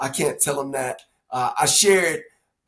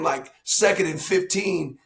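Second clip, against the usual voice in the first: ordinary delivery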